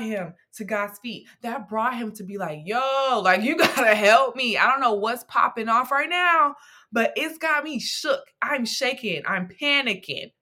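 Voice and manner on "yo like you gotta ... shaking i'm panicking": playful slangy panic, louder; hammed-up scared pleading to God; a mock-frantic cry for help; panicked plea. Jehoshaphat voiced as scared, slangy.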